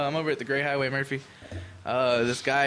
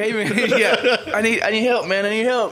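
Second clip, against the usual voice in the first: high, loud panicked pleading; imitated freaking out; 9 semitones higher, 10 dB louder than usual. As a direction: plead urgently, imitating a frantic man. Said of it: "he's, like, crying and fucking freaking".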